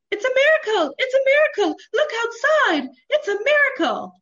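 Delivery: high, loud town crier shout; messenger shouting news. Acted. Town messenger shouting the miracle to the town. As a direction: cry it through the streets like a herald. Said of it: "The town messenger is running through the streets with news".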